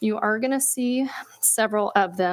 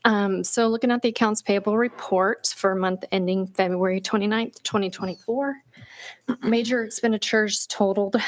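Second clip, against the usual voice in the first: catching breath after a workout; slightly winded, breathing between words. Real, not acted. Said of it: "sorry, I'm catching my breath still".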